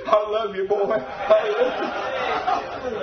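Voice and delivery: a hint of a father's tender words, slow; tender daddy. Father hugging his boy, slow and tender. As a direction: say it slowly, tenderly. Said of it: "he said".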